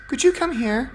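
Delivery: a hidden engine asks for attention; high engine voice. Acted. Rebecca calls out politely from the shed in a high voice.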